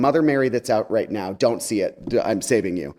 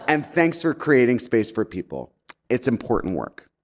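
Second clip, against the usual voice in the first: shady sign-off. Retold or imitated. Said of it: "'cause I really wanted to be shady".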